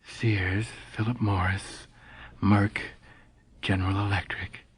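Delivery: soft, drowsy listing of stock names; half-asleep recitation. Acted. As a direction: murmur the list like a morning ritual. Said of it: "reciting the Dow Jones Industrials".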